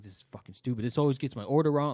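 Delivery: put-on, loud, rising, angry grumbling and griping. Retelling how a customer stomped up to the kiosk: imitating an angry customer. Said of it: "all fucking mad".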